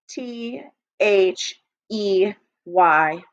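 T H E Y spelled letter by letter, slowly; slow letter-by-letter spelling. Shown as a demonstration. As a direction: stretch each letter while skywriting. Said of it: "Now do it with your eyes closed".

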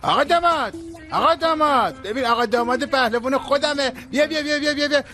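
hammed-up mock welcome for the new groom, teasing; teasing call. Teasing coworker calls out to the groom, high and playful.

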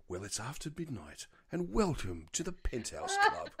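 hammed-up seductive welcome to the club, softly; sultry radio host. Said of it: "it sounded like".

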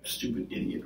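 soft, voiceless muttered insult; quiet grumble to oneself; under the breath. Pretend. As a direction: mutter it low, barely voiced. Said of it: "something under your breath".

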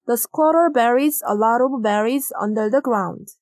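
very slow, word by word, for the class; slow dictation pace; slow model reading. Shown as a demonstration. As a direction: spell it out slowly for learners. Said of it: "berries가 정답이 되겠습니다".

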